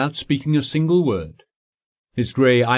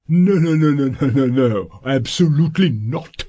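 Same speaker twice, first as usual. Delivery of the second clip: rapid alarmed refusal, a little louder; touch of fright; 3 semitones higher, 4 dB louder than usual. A narrator's reading. Lawyer refuses the client in a hurried, mildly frightened rush. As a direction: wave it off in mild alarm. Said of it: "almost with a fright".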